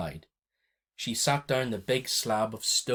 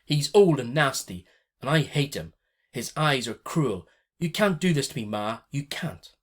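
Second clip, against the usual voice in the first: high, loud tearful protest; sobbing protest; 4 semitones higher, 6 dB louder than usual. A narrator's reading. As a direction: plead through sobs, voice pitched up. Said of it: "heaving with sobs".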